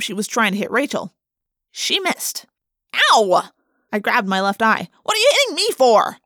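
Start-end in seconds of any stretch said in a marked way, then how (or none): 3.1-3.5 pained yelp. A narrator's reading. Narrator just hit in eye. 5.0-6.2 high, loud protest; loud, high-pitched complaint; indignant yell. A narrator's reading. Indignant yell after being hit.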